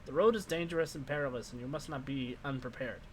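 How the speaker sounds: lightly voiced old crone, insistent; wizened old crone. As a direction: press the traveller like a pushy old witch. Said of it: "wizened old crone voice".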